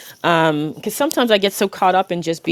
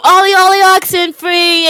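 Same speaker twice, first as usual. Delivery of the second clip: calling out; 9 semitones higher, 4 dB louder than usual. Retold or imitated. Recalling childhood hide-and-seek, high singsong call. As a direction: call the hiders in.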